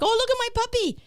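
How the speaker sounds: put-on high, gushing baby talk; gushing over puppy. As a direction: coo over a cute puppy. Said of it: "It's like".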